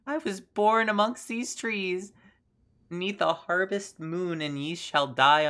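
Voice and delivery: slow, high crone voice; a lightly voiced old witch intoning. Witch character speaking in game.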